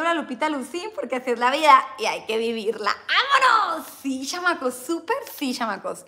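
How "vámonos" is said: high, loud, slow hype yell; catchphrase shout. Acted. Vlogger hyping up her live chat, shouting. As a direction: belt out the catchphrase.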